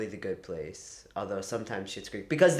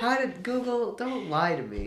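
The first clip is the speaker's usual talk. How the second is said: mock outrage; 8 semitones higher than usual. Mock scolding of Google's wrong result.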